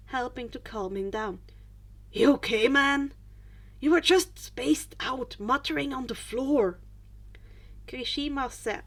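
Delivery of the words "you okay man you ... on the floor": friendly concern. A narrator's reading. Friend checks on dazed boy.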